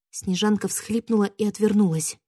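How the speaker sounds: ordinary delivery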